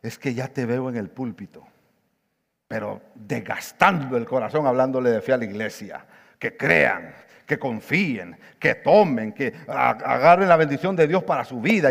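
teasing him with dry sarcasm; sarcastic. Retold or imitated. Friend Manuel teasing the pastor about faith, sarcastic. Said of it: "con un tono sarcástico".

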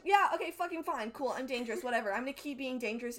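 mock defiant brush-off; defiant retort. Acted defiant retort in a recap.

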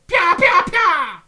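high shouted battle cry; macro yell. Retold or imitated. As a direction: scream it out again and again. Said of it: "Slash Y".

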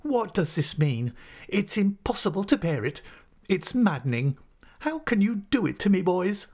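high-pitched, distraught protest at being tormented; exasperated outburst. Acted. Exasperated schoolmaster rising up to confront the unruly boys, pitched high. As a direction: plead in exasperation, pitch leaping up.

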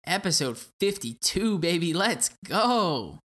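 big excited opener; hyped. Acted. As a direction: hype it up. Hype opener.

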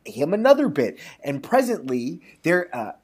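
measured storybook reading; lightly performed storyteller; story narration. A narrator's reading. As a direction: read it like a folk tale aloud. Reads a folk tale.

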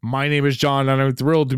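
grand show announcer; ringmaster. Acted. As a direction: welcome everyone like a ringmaster. Opening announcement over music.

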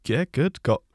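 hint of a rough Scots accent; Scottish accent. Player as Ferin answering about his morning work, Scottish accent. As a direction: answer in a casual, slightly hammy Scottish accent. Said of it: "apologise to the people of Scotland".

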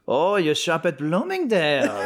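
drawn-out, high-pitched mock impressed Nazi; hammed-up comic sing-song sneer. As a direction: send up a Nazi cooing over a store, slowly. Mock Nazi reaction played for laughs.

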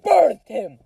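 high shout slowing to a drawn-out yell; over-the-top outraged shouting; mock-fight yelling. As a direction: scream it in a hammed-up row. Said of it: "we're yelling really loudly".

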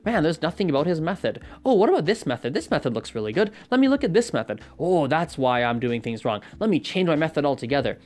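hop between ideas in a fluster; hammed-up frantic searching; anxious rant. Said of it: "that little rant right there".

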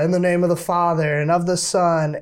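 mock solemn church chant; a hint of a priest reciting; priest's blessing. Priest blessing the scapular, retold.

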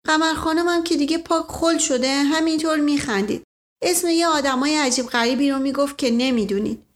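a hint of gossipy maid; lightly voiced gossiping maid. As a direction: confide it as a chatty servant, lightly acted.

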